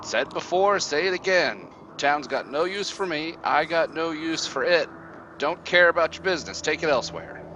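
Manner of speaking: high, impatient hag voice; cranky old witch. Acted. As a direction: snap like an annoyed crone.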